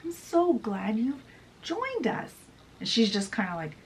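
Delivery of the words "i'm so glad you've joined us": high-pitched, sing-out greeting; gushing welcome. Acted. James welcomes Tinkerbell aboard, high gushing greeting. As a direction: greet her in a high, put-on voice. Acted greeting of a glaring fairy.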